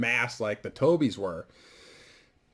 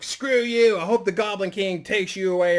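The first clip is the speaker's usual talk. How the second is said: bratty grandson; 7 semitones higher than usual. Acted. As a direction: spit it out like a nasty little brat. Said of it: "He's like".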